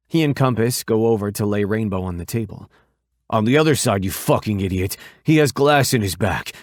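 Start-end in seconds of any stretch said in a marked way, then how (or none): 3.3-6.5 loud angry yell at his brother. Acted. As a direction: bark the order, furious. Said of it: "Jokester yells at Compass".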